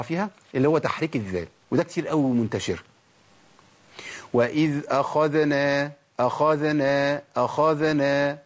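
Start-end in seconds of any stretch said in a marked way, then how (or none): 4.3-8.4 أخذنا very slow, the ذ given a vowel; voweled dhal. Shown as a demonstration. Teacher demonstrates the common error: ذ voweled. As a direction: move the ذ in أخذنا instead of resting it. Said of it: "هي أخذنا ولا أخذنا".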